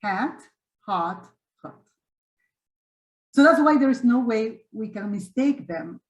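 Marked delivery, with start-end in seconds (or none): 0.0-1.8 "Hat" spread, "hot" open, the last "hot" lax; three vowel demo. Shown as a demonstration. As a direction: model the three vowels for teachers. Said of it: "You see?".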